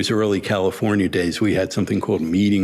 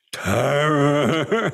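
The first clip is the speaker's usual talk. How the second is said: higher-pitched, long rolled R's, mock Tamil English; Tamil English accent; 7 semitones higher than usual. Guru repeating his word to the speaker, imitated Tamil English accent. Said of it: "with the rolling R's and the, you know, the Tamil English accent".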